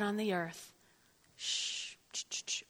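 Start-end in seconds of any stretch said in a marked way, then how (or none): 1.4-2.6 shushing. Real, not acted. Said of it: "hushing the crowd".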